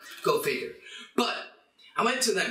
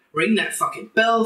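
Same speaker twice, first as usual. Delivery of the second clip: yelled order; 9 dB louder than usual. Real, not acted. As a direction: bark the order loudly at the viewers. Yelling at viewers to subscribe.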